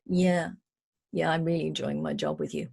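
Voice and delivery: words keen but voice soft and dull; unconvincing, flat enthusiasm. Shown as a demonstration. Employee claiming to enjoy the job, unconvincingly. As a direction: say you love it but don't mean it. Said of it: "Well, then tell your voice".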